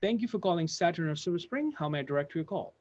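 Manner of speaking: soft, even, practiced phone greeting; smooth receptionist greeting. Retold or imitated. Receptionist showing the new hire the phone greeting, soft and smooth. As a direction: answer the phone like a calm, experienced receptionist. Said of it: "That's what, how she said it".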